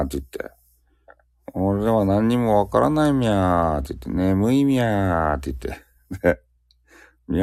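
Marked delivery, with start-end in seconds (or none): 1.5-3.8 higher-pitched caricature Nagoya "myaa"; mock Nagoya dialect. Streamer showing viewers how Nagoya people talk, mock Nagoya dialect. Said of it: "名古屋ってミャーミャー言うと". 4.1-5.4 slow caricature Nagoya "myaa"; mock Nagoya dialect. Streamer showing viewers how Nagoya people talk, slow mock Nagoya dialect. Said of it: "名古屋ってミャーミャー言うと".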